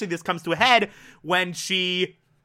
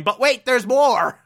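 louder hammed-up infomercial pitch; salesman pitch; 5 semitones higher, 4 dB louder than usual. Cheesy used car salesman pitching, mock and louder. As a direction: sell it like a cheesy ad. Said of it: "crappy used car salesman going".

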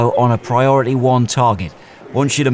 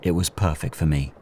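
understated noir narrator over the scene; noir narration; 3 semitones lower than usual. Acted. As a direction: tell it like a weary hitman's memoir. Story narration over music.

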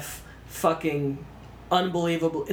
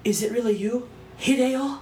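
higher, lightly hammed-up film heroine; mock wonder, lifting higher on the name; heroine's tearful-reunion parody; 7 semitones higher than usual. Imitating the Major meeting Kuze, mock wonder. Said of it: "she goes to him and she's like".

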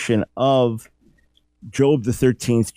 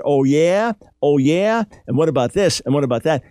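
mock sly accuser, taunting; lightly voiced taunting Satan; 3 semitones higher than usual. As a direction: needle them like a smug accuser. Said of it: "That's the voice of the accuser".

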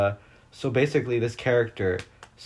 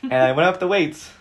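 worked-up rant; 7 semitones higher, 6 dB louder than usual. Real, not acted. Ranting about cliffhanger.

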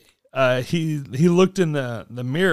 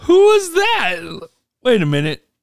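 surprised stranger; 8 semitones higher, 4 dB louder than usual. Retold or imitated. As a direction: play the stranger stunned by a wave.

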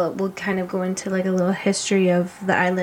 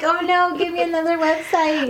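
mock whiny voice; 9 semitones higher than usual. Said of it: "You're like".

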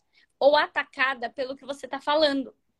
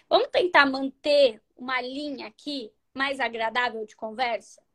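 calm, gentle invitation; 3 semitones lower than usual. Shown as a demonstration.

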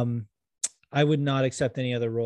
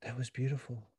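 moved director, quietly; 12 dB quieter than usual. Retold or imitated. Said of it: "the way he reacted was like".

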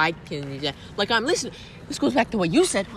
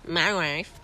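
put-on Borat accent; 4 semitones lower, 6 dB quieter than usual. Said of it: "I know he says".

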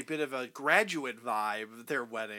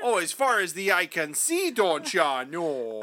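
put-on Minnesota accent; 3 semitones higher than usual. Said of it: "That's Minnesota".

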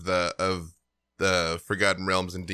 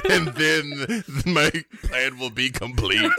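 unearthly voice; 2 semitones higher, slower than usual. Pretend. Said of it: "demon god".

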